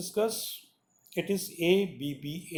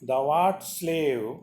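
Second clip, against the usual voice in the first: slow, lower, solemn sonnet reading; poem recitation; 3 semitones lower, much slower than usual. Acted. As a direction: read each phrase slowly, giving it weight. Reads the sonnet aloud.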